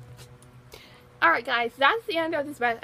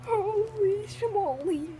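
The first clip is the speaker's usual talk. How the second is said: in ice cold water; 4 semitones higher, slower than usual. Real, not acted. Shivering after ice water.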